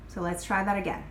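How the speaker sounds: a gentle grounded redirect; calm reset. Shown as a demonstration. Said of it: "it's very clear, it's very grounded".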